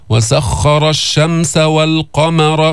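والقمر with heavy emphatic ق and light م; slow, drawn out والقمر, rising on ق; tajweed demo. Shown as a demonstration. Teacher shows students how to say والقمر. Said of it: "بتنزل بالميم، تطلع بالقاف مستعلية".

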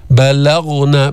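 بلغن slow, thin ب and ل, full غ; light sounds, heavy ghain. Shown as a demonstration. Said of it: "بعدين بتفخم الغين". (بلغن بترقيق ثم تفخيم الغين)

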